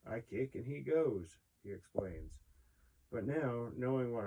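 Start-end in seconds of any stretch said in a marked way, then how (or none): 0.1-1.4 higher, louder cocky quote; quoting his younger self. Retold or imitated. Quoting his younger self on his horse, cocky. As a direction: toss it off like a sure young rider. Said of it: "I would say".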